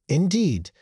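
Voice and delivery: put-on high, shaking old woman's croak; shaky croak. A narrator's reading. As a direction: croak it out in fear. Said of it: "the woman croaked, her voice shaking".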